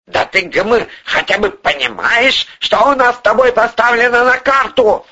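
high, indignant outburst; choking with indignation. A narrator's reading. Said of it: "Задохнулся от возмущения Порешало".

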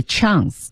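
chance 读美式开口 /æ/ 音; American pronunciation. Shown as a demonstration. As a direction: say chance with the open American a sound. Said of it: "美语的chance读成chance". (美式发音读 chance)

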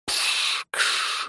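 whispered static hiss; radio static hiss from the speaker. Acted. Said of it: "раздалось в динамике".

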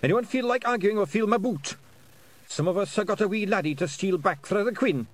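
high, loud Scottish war-chief roar; Scots bellow. Acted. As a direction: threaten them into line. Chief bellows at his clan.

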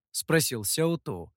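ordinary delivery, nothing marked

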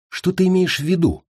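high, alert query; wary question. A narrator's reading. Prisoner questions his captor's hint, wary. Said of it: "насторожился Ласкар".

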